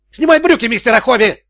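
high, loud yell; yelling at Stone to strip. A narrator's reading. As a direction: scream the command at him. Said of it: "закричал Тони".

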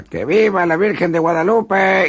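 slow, high, loud battle cry; rally the riders with a shout; grito de arenga. Acted. Pancho Villa grita a la tropa. (grito de Pancho Villa a galope)

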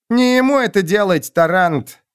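high sharp rebuke. A narrator's reading. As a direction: snap it at him. Witch snaps at warrior.

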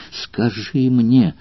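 slow, drawn-out urgent plea; anxious plea. Acted. Valeria pleads with Spartacus, drawn-out and anxious. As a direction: stretch it out, begging him. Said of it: "прерывающимся от тревоги голосом".

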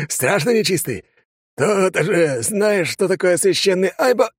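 jab the cross at the demon; gloating drunk. Acted.

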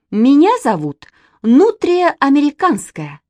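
громко и высоко, с вызовом; гордо представляется; задорно. A narrator's reading. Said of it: "сказала Катя". (Катя дерзко представляется Киму Васильевичу)

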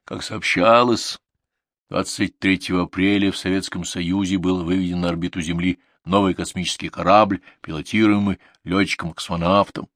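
formal, measured news bulletin; solemn state-radio announcement; radio announcer. A narrator's reading. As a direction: read it as an official broadcast. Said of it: "мужской голос с приёмника сказал".

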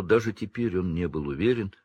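ordinary delivery, nothing marked

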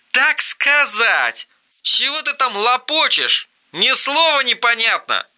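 a raging brother's hoarse contralto; hoarse wailing. Acted. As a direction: wail it half-choked. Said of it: "заголосил Эрик хриплым, полузадушенным контральто".

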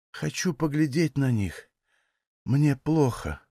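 barely able to speak; dying woman pleading gently; faint and weak. Acted. Dying woman asks for children.

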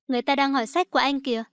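fast, tight reminder through teeth; through gritted teeth. Acted. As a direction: hiss it quickly through clenched teeth. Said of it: "cắn răng nhắc nhở anh".

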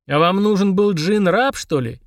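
honestly puzzled question; sincerely surprised. Acted. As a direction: ask in genuine surprise. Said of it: "искренне удивился Фрундарок".

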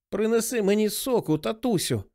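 високий, несамовитий голос хворої; мати кричить у маренні, високо; хрипкий крик. A narrator's reading. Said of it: "хрипко закричала мати". (хрипко, високим голосом)

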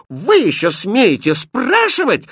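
high, loud, slow outrage; how dare he ask; indignant. Acted. Princess rebukes the prince, loud indignant. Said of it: "возмутилась принцесса".

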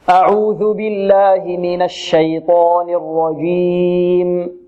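slow, measured tajweed chant; Quran recitation. Shown as a demonstration. Teacher reciting for the class to repeat, slow tajweed. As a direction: chant it slowly with long held vowels.

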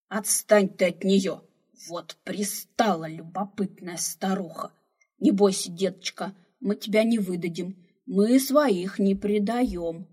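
loud, slow scolding softening to comfort; loud rebuke turning to gentle comfort; grumbling then soothing. Acted. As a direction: chide the nosy old woman, then reassure the girl. Old man scolds, then reassures.

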